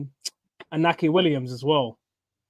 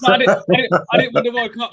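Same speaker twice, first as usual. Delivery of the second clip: high mock voice; 8 semitones higher, 7 dB louder than usual. Joking about Hakimi's World Cup.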